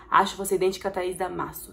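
ordinary talk

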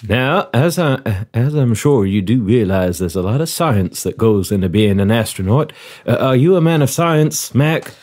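put-on courteous Southern-accented interviewer; genial southern commander. Commander offers the applicant a seat, genial southern role. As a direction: play a hospitable commander running an interview.

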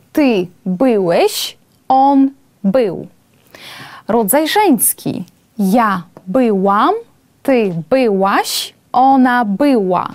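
slow Polish drill, each form drawn out; slow reading drill. Shown as a demonstration. Teacher reading the conjugation aloud to the class, slowly. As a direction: read the paradigm slowly for students to repeat. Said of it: "Все перечитаємо та повторимо".

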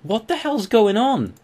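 real high-pitched, drawn-out yell; screaming. Real, not acted. Player baffled by a wild Growlithe, screaming. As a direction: cry out in loud bewilderment. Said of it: "you're just screaming at random things".

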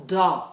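"do" with the tongue on the palate, light D; Italian D. Shown as a demonstration. Coach correcting the D in "do". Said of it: "The tongue on the palate".

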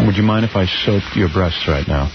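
low, slow, gentle request; a hint of a smooth suitor; sweet talk. Shown as a demonstration. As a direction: ask it tenderly and low. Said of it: "A little sweet talk".

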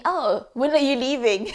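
chuckling through the question; amused retelling of his casual question; laughing quote. Retold or imitated. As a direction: laugh in disbelief as you say it. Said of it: "This guy said to me".

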